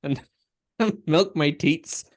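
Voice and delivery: podcast host quoting cow Flanders; mock Flanders plea. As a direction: ask sweetly for the milking through a laugh.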